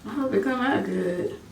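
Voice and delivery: soft nervous aside; quiet worry. Real, not acted. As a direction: hush your hopes. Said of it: "I was super nervous".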